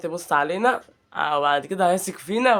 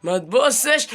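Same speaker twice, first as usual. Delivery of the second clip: begging; 2 semitones lower than usual. Real, not acted. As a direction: start hushed and climb to an urgent plea. Begging the tiger not to look. (توسّل يبدأ همسًا ويعلو)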